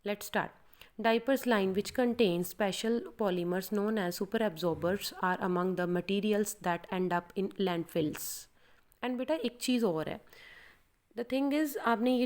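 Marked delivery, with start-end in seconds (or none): 1.1-8.2 slow, steady exam-style reading; slow demo read. Shown as a demonstration. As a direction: show the exam reading, every word clear. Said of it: "मैं अभी आपको बोल के बताती हूँ". (धीमा, साफ़ डेमो पढ़ना)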